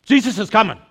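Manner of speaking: loud, high, breathless joy; excited Paul. Retold or imitated. Paul announcing to the churches, loud high excitement. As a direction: burst out like you can't wait. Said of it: "Paul's like".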